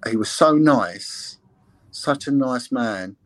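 slow, drawn-out fond praise; slowly voiced wistful admiration, retold; retold fond recollection. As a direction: linger on each word, imitating her fondness. Victim fondly recalling her teacher, retold.

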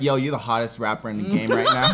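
low, quiet sweet-talk; soft, low-pitched pitch to a new signing; a rapper. Acted. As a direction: flatter him in a low voice. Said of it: "a rapper's like".

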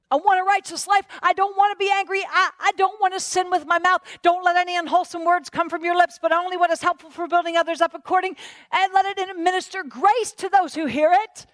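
high-pitched, fervent preaching; earnest declaration. Acted. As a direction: declare it forcefully to fend off temptation. Acts out resisting anger with scripture.

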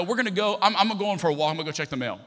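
a mildly frustrated announcement of escape; retold frustration. Husband excuses himself from wife's worrying, mildly frustrated. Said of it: "I get frustrated with her".

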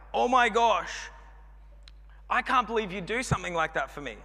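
mock amazement. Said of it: "It's so like".

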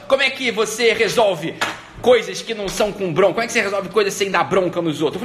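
a touch of indignant retort; irritated demand. Retold or imitated. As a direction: press her point, mildly exasperated. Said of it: "ela ficou muito irritada".

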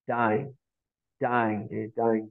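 winded from the stairs; panting, out of breath. Real, not acted. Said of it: "I'm all out of breath".

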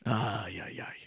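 ordinary talk

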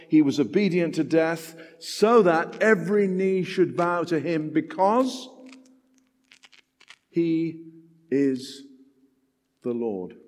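slowing, with long pauses before the Lord; dramatic pauses. Real, not acted. Preacher to congregation, slowed with weighty pauses. Preacher builds to slow climax.

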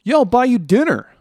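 high, loud mock bro voice; mocking friend. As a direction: parody the friend sweet-talking you into a favour. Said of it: "I hate when it's like".

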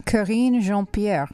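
slow, stronger French accent on "Karine Jean-Pierre", nasal vowel in Jean. Shown as a demonstration. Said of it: "say it with a little bit more French accent".

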